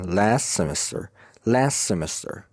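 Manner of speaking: "Last semester" joined on one s; linked words. Shown as a demonstration. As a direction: say "las-semester" with no t. («Last semester» پیوسته و بدون تی)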